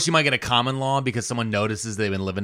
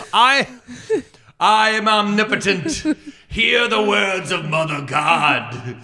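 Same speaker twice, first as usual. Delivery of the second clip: high, slow grand pronouncement; mock god voice; 4 semitones higher, 3 dB louder, slower than usual. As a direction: proclaim like a deity. Mock deity proclamation.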